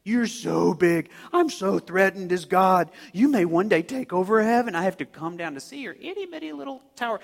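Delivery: sarcastic mock fear; teasing, condescending put-on awe; mocking God. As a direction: pretend to be threatened by someone tiny. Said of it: "God just kinda mocks them".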